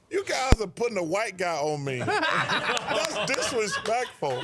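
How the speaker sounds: laughing while quoting. Retold or imitated. Retelling the same story again, laughing. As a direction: quote broken by laughter. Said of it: "He says".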